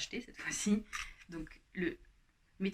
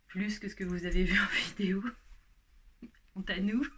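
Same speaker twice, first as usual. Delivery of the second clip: whispered with a guilty giggle; laughing whisper; 6 dB louder than usual. Real, not acted. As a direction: confess it under your breath, laughing. Confessing eating too much, laughing.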